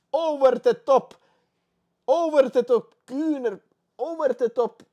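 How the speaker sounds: very loud, high repeated yell; amazed shout. Real, not acted. Streamer shouting in amazement at the surprise win, very loud and high. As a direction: cry out in amazement.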